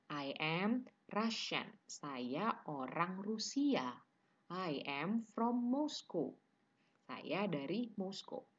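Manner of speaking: drawn-out teaching delivery; slow model answer. Shown as a demonstration. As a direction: spell out each phrase slowly for learners.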